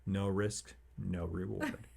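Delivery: soft, measured quote with pauses; quiet retold advice. Father quoting his son in the ocean, quietly. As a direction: imitate a child's understated wisdom.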